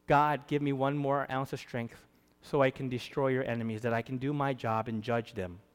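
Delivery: a blind man's quiet plea for strength; hushed plea. Acted. Samson quietly begging God for strength.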